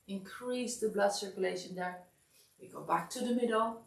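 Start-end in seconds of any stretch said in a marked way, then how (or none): 2.6-3.8 "We go back to the middle" through a yawn. Real, not acted. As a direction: say it mid-yawn. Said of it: "Sorry, I'm yawning".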